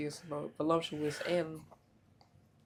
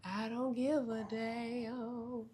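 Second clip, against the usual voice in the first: high, slow theatrical drawl; dramatic movie voice; 7 semitones higher, 3 dB quieter, much slower than usual. Retold or imitated. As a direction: overplay it like an old film star. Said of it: "what he say?".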